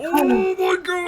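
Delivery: loud, high, slow shock; real shocked shout; shouted oh my god. Real, not acted. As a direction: shout it out in disbelief. Shocked reaction at the table.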